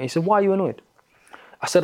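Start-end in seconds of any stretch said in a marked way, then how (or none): 0.3-0.8 higher-pitched retold questioning; imitated challenge. Facilitator to annoyed participant, imitated probing question. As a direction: put the question back, as the facilitator did.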